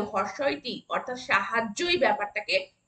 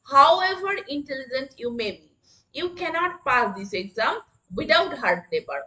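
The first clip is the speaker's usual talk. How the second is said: very slow, word by word; slow classroom dictation; much slower than usual. Shown as a demonstration. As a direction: spell it out slowly for the class. Teacher models a sentence.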